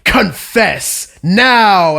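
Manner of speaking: slow, drawn-out command, hard on each word; stern demand. Retold or imitated. Teacher orders a kid to confess, stern and slow.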